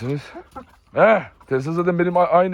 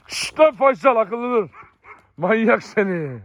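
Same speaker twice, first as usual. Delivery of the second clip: scolding the dog; 4 semitones higher, slower than usual. Real, not acted. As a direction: hush the dog sharply and warn him.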